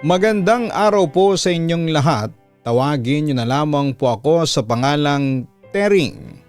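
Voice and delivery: ordinary delivery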